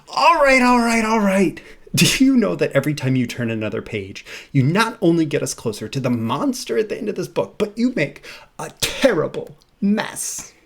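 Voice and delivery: fretful puppet losing patience; Grover voice. Acted. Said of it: "So here's Grover".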